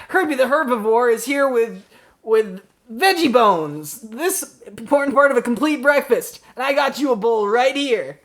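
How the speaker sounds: upbeat surfer-dude dinosaur mascot; cartoon mascot voice. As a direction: pitch it high like a cereal ad. Herbie the dinosaur cereal mascot.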